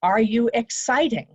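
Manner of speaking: bright upbeat question with a kick; exciting energy. Shown as a demonstration. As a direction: sell the excitement. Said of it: "what do they need to believe about you".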